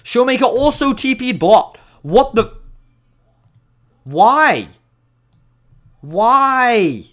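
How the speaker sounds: high-pitched, exasperated outburst; loud disbelief. Real, not acted. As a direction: cry out in utter disbelief. Caster reacts in disbelief to replay.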